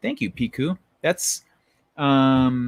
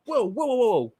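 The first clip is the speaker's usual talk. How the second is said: calming cop; 8 semitones higher than usual. Retold or imitated. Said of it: "the other cop goes".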